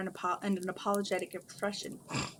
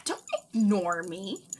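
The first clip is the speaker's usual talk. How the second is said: sharp, louder demand; snapping; 5 dB louder than usual. A narrator's reading. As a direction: snap it at him. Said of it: "she snapped".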